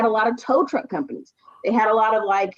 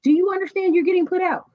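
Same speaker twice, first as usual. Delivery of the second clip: incredulous landlord; 8 semitones higher than usual. Retold or imitated. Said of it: "So I'm like".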